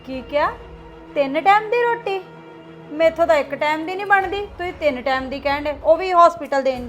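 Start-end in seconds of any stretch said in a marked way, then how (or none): 0.1-2.2 shocked disbelief. Acted. Daughter shocked by the demand.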